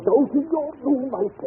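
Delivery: slow, high, commanding order; stern order. Acted. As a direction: send her off firmly, word by word. Employer orders her to room.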